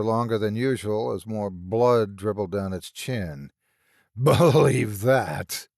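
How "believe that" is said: very slow rasping monster; decayed thing, slow and louder; slow creature voice. A narrator's reading. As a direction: draw it out like a taunt. Monster speaks in story.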